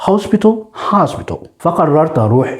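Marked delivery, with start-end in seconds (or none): 0.1-0.5 British "hospital", rounded O in the first syllable; British-style "hospital"; British accent. Shown as a demonstration. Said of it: "الجماعة البريطانيين بيقولوا". 0.9-1.4 American "hospital", open AH in the first syllable; American-style "hospital"; American accent. Shown as a demonstration. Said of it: "الأكسنت الأمريكاني".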